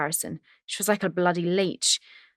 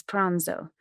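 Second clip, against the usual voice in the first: put-on Italian accent. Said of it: "She said the last word in a heavy Italian accent".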